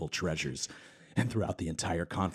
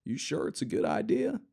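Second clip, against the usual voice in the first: snide doubt; 9 semitones higher than usual. Acted. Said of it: "The way he said it rubbed Hawking the wrong way".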